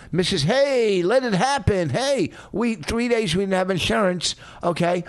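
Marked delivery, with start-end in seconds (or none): 0.1-2.3 imitating a carefree wife; lightly mocking breezy "hey"; mock nonchalant. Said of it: "You live nonchalant".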